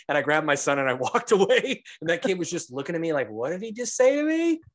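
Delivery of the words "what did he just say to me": put-on high-pitched incredulous child; stunned kid. Kid reacting to adult's threat, imitated stunned voice. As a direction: imitate a kid who can't believe it, voice up high.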